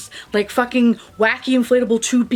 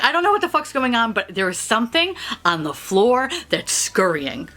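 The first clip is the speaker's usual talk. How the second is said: fast, rattled inner voice; mock panic; panicked thoughts. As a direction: rush it like you're freaking out. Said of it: "Now I'm like".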